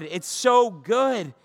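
It's so good drawn out very slowly; slow, savoring. Real, not acted. Preacher savoring the promise to the congregation, slowly. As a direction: linger on so, savoring it.

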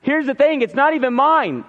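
imitating someone crying out in alarm; mild mock outcry. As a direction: lightly act out a distressed cry. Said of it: "and he cries".

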